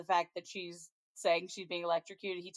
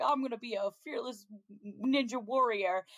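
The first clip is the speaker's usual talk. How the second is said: put-on quick, a touch higher, bragging kid voice; boastful little boy; 4 semitones higher than usual. Little boy announcing his ninja costume, quick and proud. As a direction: puff up like a small kid playing hero. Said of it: "and he's like".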